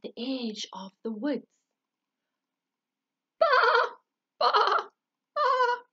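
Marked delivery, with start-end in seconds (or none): 3.4-5.8 high, loud bleat; sheep bleating. Acted. Sheep starts singing for the thrush, high bleat. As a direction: start the baa brightly. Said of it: "began Samuel".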